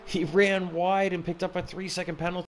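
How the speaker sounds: laughing, high excited call; motorsport commentator. Real, not acted. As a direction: laugh through the race update. Laughing during race call.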